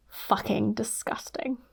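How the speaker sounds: slow, whispered disgust; hushed disgust. Acted. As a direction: breathe it out in quiet revulsion. Disgusted aside at story's end.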